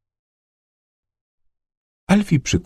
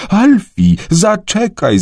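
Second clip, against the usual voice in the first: high, raised call after someone; 10 semitones higher, much slower than usual. A narrator's reading. Dad calling after Alfie running ahead, high urgent shout. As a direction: call out urgently, pitch well up. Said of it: "zawołał tata".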